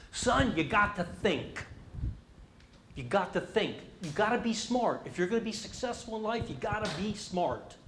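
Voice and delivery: a hint of a dad drilling it in; lecturing dad. Retelling how his dad lectured him, mildly insistent. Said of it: "he told me a thousand times".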